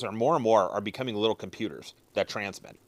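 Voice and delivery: lips clamped on cigar; speaking while puffing; talking around cigar. Real, not acted. Seen 0: Cigar held between lips through most of the labelled speech.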